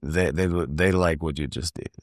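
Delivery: halting imitated Italian-accented English. Assistant director explains the crew's applause, Italian accent. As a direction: search for the words in an Italian accent. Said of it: "in the Italian accent".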